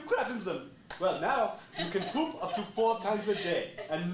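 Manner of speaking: infomercial pitch. Acted. Infomercial pitch for Shiza pants.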